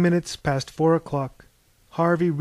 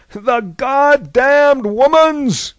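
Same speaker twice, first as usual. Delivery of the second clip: loud, high, slow bellow; exasperated, thundering curse; furious roar; 10 semitones higher, 9 dB louder, much slower than usual. A narrator's reading. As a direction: roar each word out long. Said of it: "roared Zeus".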